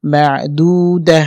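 "মা দু দা" slow, closing on a breathed h; pausal ending. Shown as a demonstration. Teacher shows the stop, "মা দু দা" slowly ending in h. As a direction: stretch "দু", end "দা" on a silent-vowel h. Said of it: "হা হয়ে যাবে এবং সাকিন".

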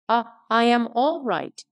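a hint of a surly blacksmith; mild gruff retort; gruff old Orlick. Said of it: "said gruff old Orlick".

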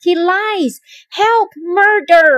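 high, loud alarm; alarmed outcry. A narrator's reading. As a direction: cry out to summon help. Amelia cries out in alarm.

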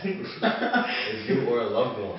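laughing. Real, not acted. Repeats ad line laughing.

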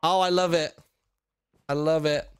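delighted. Real, not acted. Delighted by the gift.

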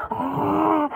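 drawn-out imitated T-Rex cry; slowed T-Rex "ah". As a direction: stretch out a slowed-down "ah". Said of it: "a T-Rex voice".

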